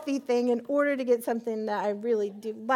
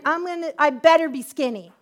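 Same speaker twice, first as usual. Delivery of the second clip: louder, laughing quip; laughing joke; 4 semitones higher, 9 dB louder than usual. Retold or imitated. Woman joking back to her friend, laughing.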